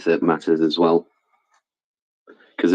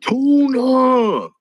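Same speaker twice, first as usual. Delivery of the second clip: high shouted call; 3 dB louder than usual. Real, not acted. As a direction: call out the name loudly. Shouting a name across room.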